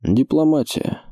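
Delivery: carefully chosen word. A narrator's reading. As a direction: stretch out the newly found word. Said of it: "подобрав подходящее слово".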